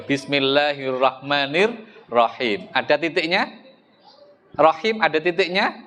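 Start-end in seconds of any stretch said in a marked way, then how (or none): 0.1-2.7 slow recitation. Shown as a demonstration. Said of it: "Coba Anda baca".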